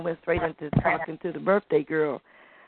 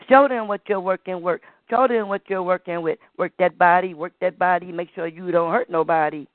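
poem recital. Acted. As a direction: recite like a griot telling tales. Continues poem.

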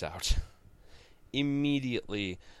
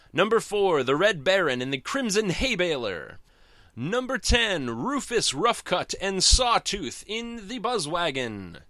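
loud, high, booming race announcer; Wacky Races announcer; 8 semitones higher, 4 dB louder than usual. Shown as a demonstration. Fan reviewing the comic does the cartoon's race announcer voice. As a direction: call the racers to the start line like a cartoon announcer. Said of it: "do my Wacky Races voice".

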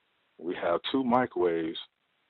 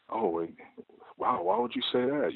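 mock shock; 12 semitones higher than usual. Imitating old coworker's fake shock.

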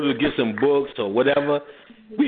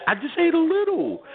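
imitating wife; 14 semitones higher than usual. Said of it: "She said".

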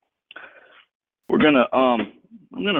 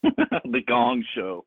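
laughing drawn out; 4 semitones higher, much slower than usual. Pretend.

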